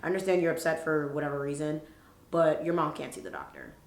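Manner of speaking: mildly soothing, measured appeal; talking her down. Retold or imitated. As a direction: reason with someone to settle them. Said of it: "I talk her down".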